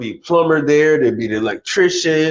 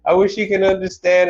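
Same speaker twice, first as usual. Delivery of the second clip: mock woman sighing; 5 semitones higher than usual. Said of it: "they'll say something like".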